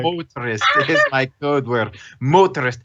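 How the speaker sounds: testing a Scottish accent on a key word; Scottish accent warm-up. Shown as a demonstration. Game master rehearsing before voicing Horace, Scottish accent warm-up. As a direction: find the Scottish accent through the practice word. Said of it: "how do you do a Scottish accent".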